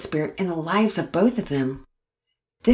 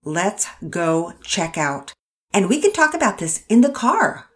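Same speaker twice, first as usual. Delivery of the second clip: stern and angry; 3 semitones higher, 4 dB louder than usual. Acted. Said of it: "this was one time that she was angry".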